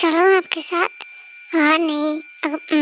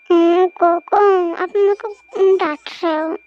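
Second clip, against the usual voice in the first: put-on sulky girlfriend; 4 dB louder than usual. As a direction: sulk as if you've been scolded. Girlfriend sulking at scolding.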